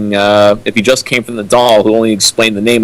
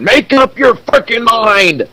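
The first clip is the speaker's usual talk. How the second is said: slow, much higher cry of frustration; exasperated outburst; 11 semitones higher, slower than usual. Acted. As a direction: throw your hands up at the writer. Exasperated at the switching perspective.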